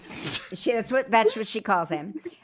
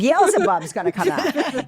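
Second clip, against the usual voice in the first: mock dramatic warning; 5 semitones higher, 8 dB louder than usual. Retelling her frantic search.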